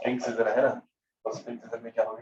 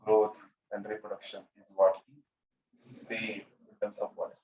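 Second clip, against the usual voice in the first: slow prompt; 4 semitones lower, 4 dB quieter, much slower than usual. Shown as a demonstration. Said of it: "teacher drags out a fill-in prompt".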